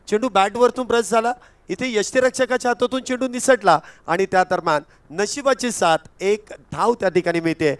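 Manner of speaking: lifted cricket-commentary voice; live play-by-play. Acted. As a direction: call the fumbled ball as it happens. (Cricket सामन्याचं थेट समालोचन)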